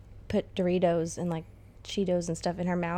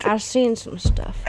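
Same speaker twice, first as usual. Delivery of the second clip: put-on slow, rambling elderly veteran; old man voice; 2 semitones higher, 6 dB louder, slower than usual. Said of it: "give me your best old man voice".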